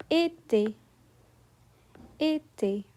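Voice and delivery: "été" with two sharp closed é sounds; French é. Shown as a demonstration. Teacher models the word for students, sharp closed é. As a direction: say "été" the French way, each é tight. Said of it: "For example".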